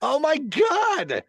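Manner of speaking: slow, high-pitched disbelief; real drawn-out shock; amazed dismay. Real, not acted. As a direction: draw it out high, astonished. Reacts to friend's towing story.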